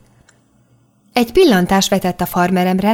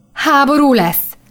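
higher, slow scared question; frightened; 6 semitones higher, slower than usual. A narrator's reading. Daniel asks if war is coming, frightened. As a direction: dread creeping into the voice. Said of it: "kérdezte ijedten".

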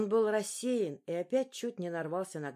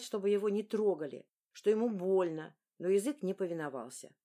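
plain reading voice

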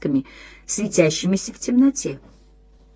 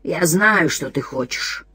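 dry, rustling creepy voice; creaky voice; 2 semitones lower, 3 dB quieter, slower than usual. Acted. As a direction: rasp it like a dead insect. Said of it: "Голос был сухим и шелестящим".

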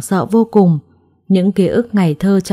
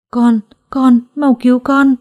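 much higher, louder frantic plea; desperate plea; 5 semitones higher, 3 dB louder than usual. A narrator's reading. Injured mother begging Phong to save her child. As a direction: beg him to save the baby. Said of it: "begging for the baby".

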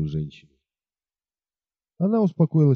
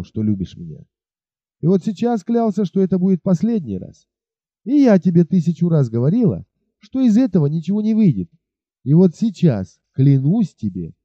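stern imposing tone; 5 semitones higher than usual. Acted. Бет окончательно отказывает Уиллу, stern and imposing. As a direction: lay down the law, once and for all. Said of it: "таким суровым и внушительным тоном".

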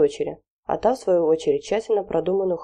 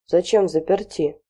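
sincere surprise. Acted. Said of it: "искренне изумился".

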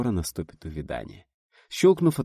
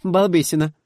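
affectionately; 10 semitones higher, 8 dB louder than usual. A narrator's reading. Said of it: "ласково сказала Света".

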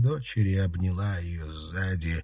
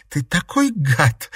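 slow, louder playful laughing jab; a touch of laughter in a teasing reproach; 9 semitones higher, 6 dB louder, slower than usual. Acted. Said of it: "рассмеялась Катерина".

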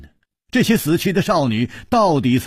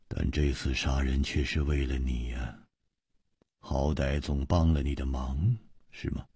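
low, hushed, with pauses between phrases; deliberate; 8 semitones lower, 7 dB quieter than usual. A narrator's reading. Ji telling Chu the killing helped him, hushed. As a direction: say it softly, taking your time. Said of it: "缓缓地说".

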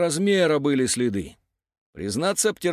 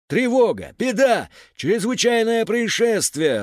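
high, loud alarm cry; тревожные вопли; 8 semitones higher, 4 dB louder, slower than usual. A narrator's reading. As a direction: raise the alarm, each word pitched high. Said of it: "раздались вопли Зера". (тревожно вопит)

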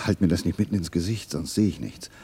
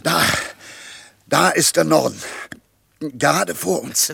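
higher, louder, slow proclamation; triumphant announcement; 8 semitones higher, 7 dB louder than usual. Acted. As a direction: proclaim north proudly. Announcing found direction.

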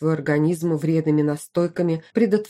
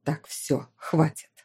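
dismissive; 5 dB quieter, slower than usual. A narrator's reading. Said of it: "отмахнулась его светлость".

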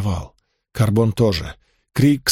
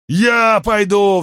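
high, slow, louder roar; 9 semitones higher, 3 dB louder, much slower than usual. Acted. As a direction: bellow the pledge. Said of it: "взревел Пульхар".

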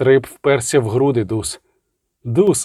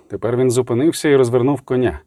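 plain reading voice

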